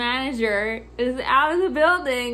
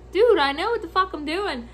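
exasperated retort; 5 semitones higher, 4 dB louder than usual. Retold or imitated. Annoyed retort to bossy customer.

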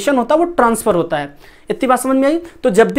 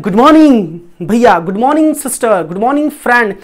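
cheerful greeting. Shown as a demonstration. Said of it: "कैसे बोलेंगे?".

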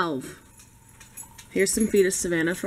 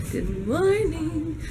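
slow and high good morning; high drawn-out greeting; 8 semitones higher, much slower than usual. Acted. Sing-song morning greeting.

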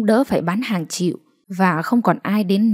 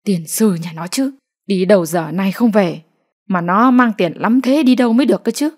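cursing mutter. Acted. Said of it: "Bà Kính lẩm bẩm chửi con trai".

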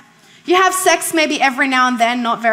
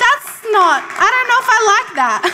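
put-on child voice; 6 semitones higher than usual. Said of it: "I was like".

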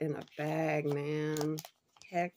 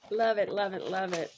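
excited gushing; 6 dB louder than usual. Real, not acted. Gushing over the box items.

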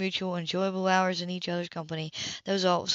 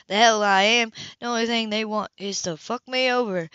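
loud, bristling refusal; sudden angry flare at the table; defiant outburst; 3 semitones higher, 5 dB louder than usual. Acted. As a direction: bark it back at her sister. Gloria rebels against social services.

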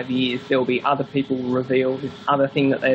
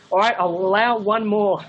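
higher, mock-weary concession; grudging Joe; 5 semitones higher than usual. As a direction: play the friend giving in with a sigh in the voice.

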